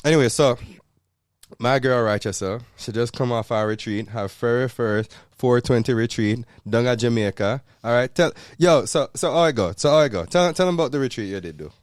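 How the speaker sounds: lively Jamaican patois; host it in Jamaican patois. Acted. Host handing over to fiancee, lively Jamaican patois. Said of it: "the whole episode in patois".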